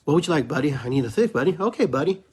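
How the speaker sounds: high, chummy mock buddy voice; mock buddy talk. Mocking political cronies calling each other buddy, high chummy voice. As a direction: play the cronies trading favors. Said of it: "It's all the buddy, buddy".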